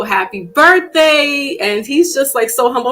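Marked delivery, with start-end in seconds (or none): 0.0-1.6 high, slow, gushing; pitched-up birthday gush; gushing wish. Retold or imitated. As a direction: draw it out sweetly. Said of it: "And I was like".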